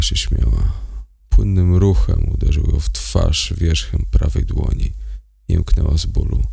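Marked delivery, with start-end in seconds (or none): none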